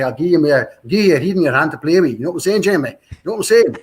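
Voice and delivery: a light, laughing send-up of a broad Glaswegian dad; dad's Glaswegian accent. Retold or imitated. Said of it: "he could go straight into Glaswegian and say".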